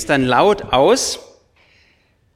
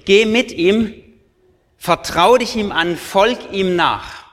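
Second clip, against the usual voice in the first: the sure voice of faith calling you to follow; 2 semitones higher than usual. Acted. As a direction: proclaim it like an exclamation mark. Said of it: "Jetzt kommt das Ausrufezeichen".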